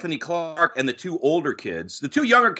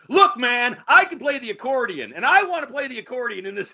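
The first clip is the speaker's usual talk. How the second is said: higher-pitched, hammed-up demand; mock insistence; 6 semitones higher than usual. Actor demanding of the writers to play accordion, mock insistence. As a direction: play-act an actor insisting on his part.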